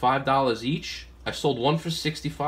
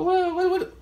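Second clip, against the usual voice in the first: mock disbelief. Retelling a haggle with Joe.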